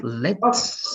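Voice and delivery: let's with the T clearly marked; noticeable T. Shown as a demonstration. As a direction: stress the T in let's. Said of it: "make that T noticeable".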